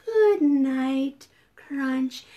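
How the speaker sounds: unhurried, lulling good night; gentle bedtime voice; calm and soothing. Pretend. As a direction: say good night slowly to soothe someone to sleep. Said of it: "A nice, calm, soothing voice".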